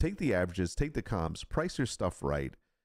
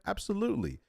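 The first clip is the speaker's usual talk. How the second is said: Absolutely said much higher, with a long falling sweep; big rueful Absolutely; emphatic absolutely; 12 semitones higher, faster than usual. Real, not acted. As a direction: hammer home Absolutely as a sheepish confession. Emphatic admission of crap products.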